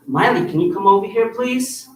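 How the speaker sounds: light, polite calling tone; gentle request. Shown as a demonstration. Instructor calling a student over, politely. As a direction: ask her over kindly. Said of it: "so that's a little bit more firm".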